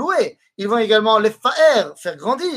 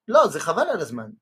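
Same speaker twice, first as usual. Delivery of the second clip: "lo, Zechaval al azman" dropped softer and let down, like a waste; dismissive intonation; 3 semitones lower, 5 dB quieter than usual. Shown as a demonstration. Teacher shows the phrase meaning waste of time, said dismissively. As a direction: make "Zechaval al azman" sound like a letdown. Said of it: "c'est une perte de temps".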